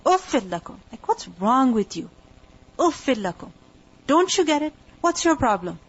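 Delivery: mildly exasperated retold rebuke; frustrated. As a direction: act out losing patience with people who won't listen. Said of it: "getting frustrated with their behavior".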